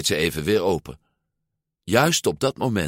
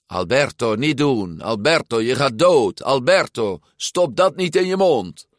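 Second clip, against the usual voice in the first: higher, scolding warnings piling up; nagging inner voice; 6 semitones higher, 4 dB louder than usual. Acted. Alberto imitating the Bruno in his head, nagging. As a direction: nag like a fussing worrier.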